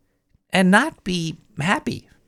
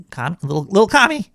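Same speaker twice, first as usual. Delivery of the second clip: doting dog owner; 3 semitones higher, 4 dB louder, faster than usual. Retold or imitated.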